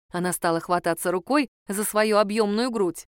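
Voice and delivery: ordinary delivery, nothing marked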